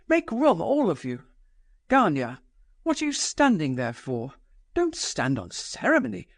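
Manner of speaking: a proud woman daring the room, pitched high; mock the guests with scornful command; Nastasia's defiant voice. Nastasia taunting the guests over burning money, high and scornful.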